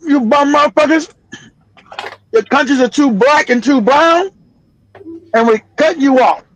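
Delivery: scornful scolding. Acted. Voicing America scolding Europeans.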